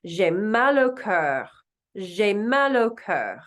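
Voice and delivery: J'ai mal au cœur slowly as zhay mal oh kur; slow French. Shown as a demonstration. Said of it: "Oh, this one".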